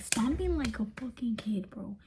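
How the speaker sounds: whispered, disbelieving aside. Real, not acted. Describing his tantrum to viewers, whispered.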